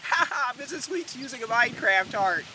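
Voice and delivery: lightly imitated teasing laugh; mock laughing kids. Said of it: "kids would laugh and go".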